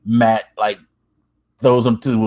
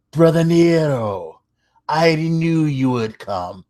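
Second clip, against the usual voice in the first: bad British accent; 4 semitones higher, slower than usual. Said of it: "if you think my accent is bad".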